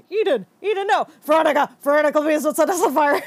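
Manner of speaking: high pleading mock voices; begging captors. Captors begging her not to burn them, mock pleading. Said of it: "they start being like".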